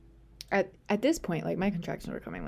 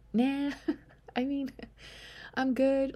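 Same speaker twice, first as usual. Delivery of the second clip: breezy brush-off; 8 semitones higher than usual. Retold or imitated. Brushing off nurses' help.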